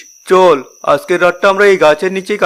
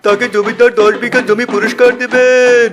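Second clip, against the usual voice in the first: town crier; 5 semitones higher than usual. Acted. Crier announces the landlord's reward to villagers, calling out. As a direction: call out the landlord's notice to the village.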